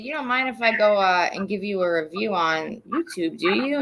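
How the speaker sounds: soft, lifted mock-polite question; mock-polite request. Client asking lawyer about a YouTube review, mock-polite. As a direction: ask it softly, tipping up at the end. Baiting him with review offer.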